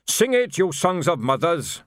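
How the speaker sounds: high-pitched urging, drawn out at the end; sergeant's call. Acted. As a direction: goad the marchers into singing. Sergeant urging marchers to sing.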